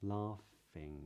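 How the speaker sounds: "laughing" with a long ah and a final ng, no g; "laughing" ending on a soft nasal ng; modern british accent. Shown as a demonstration. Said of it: "repeat it at the end of dancing".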